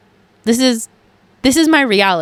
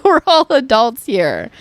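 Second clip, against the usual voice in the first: laughing; 3 semitones higher than usual. Real, not acted. To listeners after oversharing, laughing sheepishly. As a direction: chuckle it out, a little embarrassed.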